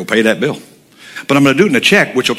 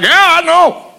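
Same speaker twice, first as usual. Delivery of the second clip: much higher, breezy buyer; eager buyer; 4 dB louder, slower than usual. Retold or imitated. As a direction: brush it off in a high buyer voice. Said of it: "He's like".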